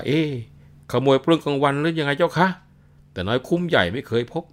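put-on old woman berating the intruder; shrill-free, loud outraged scolding; scolding shout. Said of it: "ร้องด่า".

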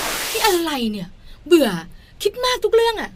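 drawn-out, exasperated mock complaint; fed-up husband. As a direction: act a husband sick of being questioned. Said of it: "ตอบบ้างไม่ตอบบ้างหลีกเลี่ยงไป".

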